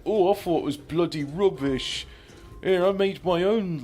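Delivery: mock snooty art critic voice; snarky talking head. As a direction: sneer at the work in a put-on voice. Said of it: "It's like".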